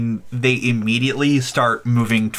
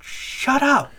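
put-on higher, sharp child voice; snappy kid voice; 8 semitones higher, slower than usual. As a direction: snap at the others like a kid. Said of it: "other kids is just like".

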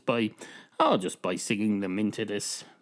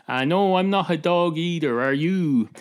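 higher, louder call across the lounge; shouting over; 6 semitones higher, 5 dB louder than usual. Acted. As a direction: call back to someone at the far end. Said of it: "shouts over from the far end of the lounge".

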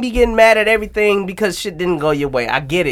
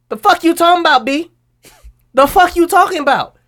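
exasperated rant; 11 semitones higher, 4 dB louder than usual. Real, not acted. Angry rant at fans.

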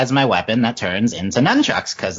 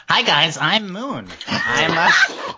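lightly hammed-up odd accent, pitched higher on Moon; put-on character accent; 5 semitones higher, much slower than usual. Player introducing his character Moon to the group, in a hammed-up put-on accent. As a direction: try out a half-formed silly character accent. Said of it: "I've been working on an accent".

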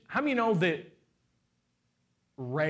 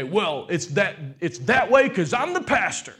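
mock-indignant raised voice; mock pulling rank; 2 semitones higher, 6 dB louder than usual. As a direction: throw your title around, hammed up. Mimics himself pulling rank.

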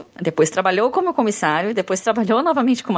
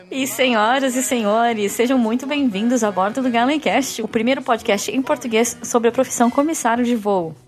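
flight attendant; 4 semitones higher than usual. Acted. Podcast welcome as cabin announcement.

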